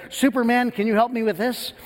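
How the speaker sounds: a hint of an eager first grader asking for help; kid calling out. First grader asks parent helper for help, calling out.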